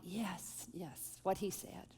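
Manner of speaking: murmuring support under her breath; quiet agreement. Retold or imitated. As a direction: echo him softly while nodding. Nodding along beside husband.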